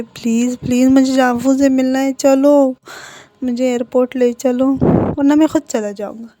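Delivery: pleading demand. Acted. Wing begs to go to airport.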